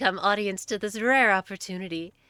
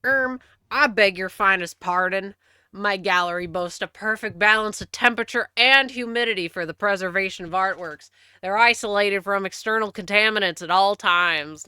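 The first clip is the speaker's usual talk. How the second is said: a put-on southern accent, louder, genteel and offended; 5 dB louder than usual. Streamer reading a game character aloud, in a mock southern accent. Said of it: "I'm so sorry if you actually have a southern accent".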